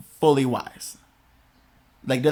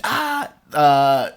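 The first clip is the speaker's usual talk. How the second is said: high, slow calling up the stairs; mom yelling names; slower than usual. Retold or imitated. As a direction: mimic a mom hollering for the kid. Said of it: "your mom would yell".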